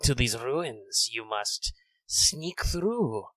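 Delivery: a hunter toying with his prey; Radamus lizard voice. Acted. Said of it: "I'm doing kind of a lizard man voice".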